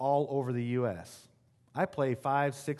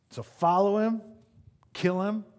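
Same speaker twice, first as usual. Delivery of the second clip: mock angry crowd; 7 semitones higher, 5 dB louder than usual. Crowd voiced wanting Jesus dead.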